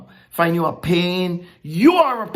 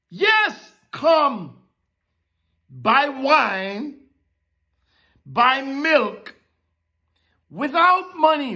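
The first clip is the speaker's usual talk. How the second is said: higher, calling the offer; voicing God; 4 semitones higher, slower than usual. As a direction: proclaim it as God's invitation. Preacher voicing God's offer.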